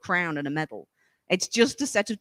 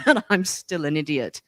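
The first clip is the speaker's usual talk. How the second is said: mock self-put-down; 4 semitones lower than usual. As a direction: lower put-on silly voice. Mocked sentence ending after laugh.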